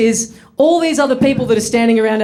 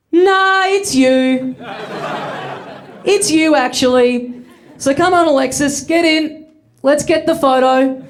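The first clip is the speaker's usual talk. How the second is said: higher, pushy, insisting; insistent; 5 semitones higher, slower than usual. Retold or imitated. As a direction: refuse to take no for an answer. Stranger insisting he's the singer.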